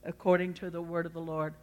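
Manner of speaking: soft, low answer to an accuser; quiet affirmation. Acted. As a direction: answer back quietly and steadily. Acted humble reply to the accuser.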